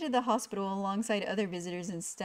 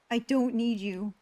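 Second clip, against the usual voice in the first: snapping; 4 dB louder, slower than usual. Acted. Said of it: "I snapped".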